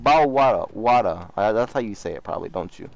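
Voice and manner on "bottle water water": imitating a British kid saying bottle water with the t dropped; lightly mocking British accent on "Bottle water, water"; British accent, teasing and swallowed. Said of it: "No, no, you be like".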